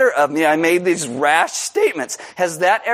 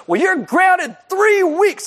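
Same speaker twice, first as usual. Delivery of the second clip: high, slow imitated mother passing sentence; stern mom verdict; 14 semitones higher, slower than usual. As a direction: hand down the sentence slowly. Mom's verdict.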